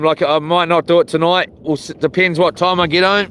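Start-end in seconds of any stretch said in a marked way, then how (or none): none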